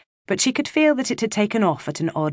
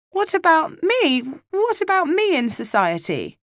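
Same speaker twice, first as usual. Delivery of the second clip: put-on pleading child; 12 semitones higher than usual. Left-out child protests.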